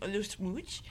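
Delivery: soft teasing whisper on smooch; hushed, giggly aside. Acted. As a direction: breathe it out like a secret. Teasing about a witch's kiss.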